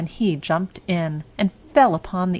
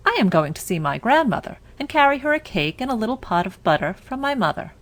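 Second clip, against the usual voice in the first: put-on little girl voice; 4 semitones higher, faster than usual. Girl answers the wolf.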